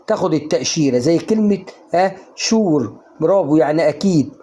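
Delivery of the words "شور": "شور" starting with a sh sound. Shown as a demonstration. Teacher shows students the rule, "شور" with sh. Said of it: "تنطق شين على طول".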